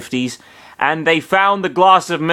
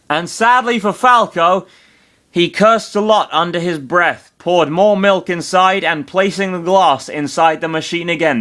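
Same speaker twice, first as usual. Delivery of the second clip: wild unhinged ranting; 5 semitones higher than usual. Acted. Rising to a rant.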